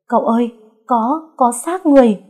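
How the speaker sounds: high, loud servant's cry; alarmed shout. A narrator's reading. Servant shouts to his master on finding a body, alarmed yell. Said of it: "tiếng thằng Thiện hét lên".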